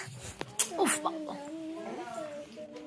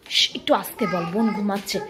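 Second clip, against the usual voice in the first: hushed; 5 semitones lower, 7 dB quieter, faster than usual. Real, not acted. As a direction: quietly shush her, sister is asleep. Hushing child, sister sleeping. (নরম চাপা গলায়)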